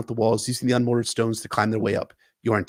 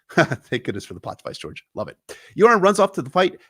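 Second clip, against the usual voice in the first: normal talking voice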